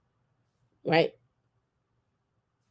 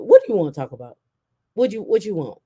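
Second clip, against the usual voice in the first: stern mama; 5 dB louder, faster than usual. Retold or imitated. Strict mama answers phone.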